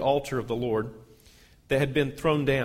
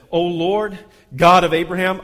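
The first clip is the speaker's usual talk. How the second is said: louder, lifted cry to God; fervent call; 3 semitones higher, 9 dB louder than usual. Acted. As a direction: call out to heaven with full faith. Elijah's prayer on the altar.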